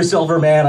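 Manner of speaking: "Silverman" with a full "man" at the end; "Silverman" ending in a clear, open "man". Retold or imitated. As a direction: say "Silverman" like the superhero word "man". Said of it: "It's Silverman".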